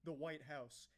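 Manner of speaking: slow, drawn-out villain reveal; grand dramatic reveal. Pretend. Commentator mocking a woman with an imagined slow dramatic reveal. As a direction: unmask yourself slowly for the big twist. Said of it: "she should have went".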